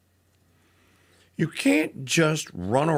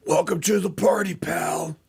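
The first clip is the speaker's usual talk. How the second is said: Bruce Willis line; 4 semitones higher than usual. Retold or imitated. Host greets a party defector with a mock movie catchphrase. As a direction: bellow the movie quote at the caller. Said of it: "I need to have that on my hotkey here".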